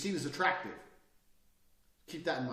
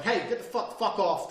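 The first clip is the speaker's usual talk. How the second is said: aggressive yelling; 4 semitones higher, 4 dB louder than usual. Retold or imitated. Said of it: "I've been aggressive".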